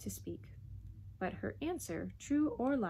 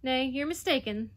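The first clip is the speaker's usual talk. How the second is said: higher, louder stout Yorkshire mother; 5 semitones higher, 5 dB louder than usual. A narrator's reading. Mother stoutly contradicting the Duke. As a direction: firmly deny it. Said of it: "the woman said stoutly".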